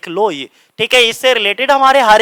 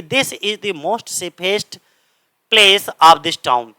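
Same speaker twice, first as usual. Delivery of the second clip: very slow, each word set apart; teacher reads the faulty sentence out for the class; slow example reading; much slower than usual. Shown as a demonstration. Drawn-out reading of the wrong example. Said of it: "देखो safest भी लिखा है और most भी".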